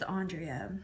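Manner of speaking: Andrea said AHN-dree-uh; name said as pronounced. Shown as a demonstration. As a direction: open "ah" at the start of Andrea. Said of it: "it's just pronounced Andrea".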